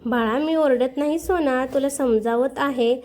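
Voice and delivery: gentle and slow reassurance; soothing. Acted. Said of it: "तिला जवळ घेत म्हणाली".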